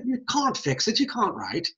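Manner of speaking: British "can't" with a broad ah; mock British. Lecturer joking after "sounds almost British", mock British accent.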